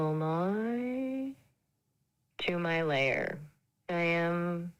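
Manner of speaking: slow, drawn-out Transylvanian vampire accent. Shown as a demonstration. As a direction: play a Count Dracula-like Transylvanian host, very slowly. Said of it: "Can you do Transylvania?".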